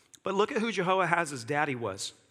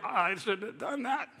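laughing regret; 2 semitones higher, 4 dB quieter than usual. Retold or imitated. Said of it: "you're like".

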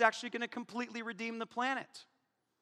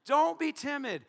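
preaching at full force; 3 dB louder than usual. Acted. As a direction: thunder the command, then hush the comfort.

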